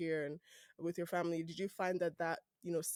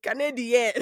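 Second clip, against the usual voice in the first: laughing; 5 semitones higher, 13 dB louder than usual. Real, not acted. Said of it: "But if I want to speak back".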